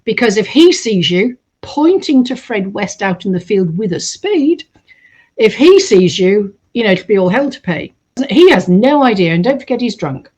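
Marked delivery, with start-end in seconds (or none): 0.1-7.9 put-on Black Country accent. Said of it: "she's got this black country accent".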